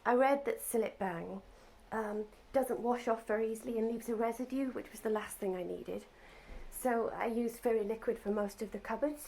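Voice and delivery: muffled, talking through a mask; full face dive mask. Real, not acted. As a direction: speak from behind a face mask. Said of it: "I'm talking through a mask".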